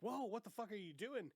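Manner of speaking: high startled whoa, retold; mock-alarmed outburst; startled yell. Retold startled friend shouting.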